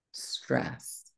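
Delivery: breathy whisper of the word. Real, not acted. Coach repeats the named feeling.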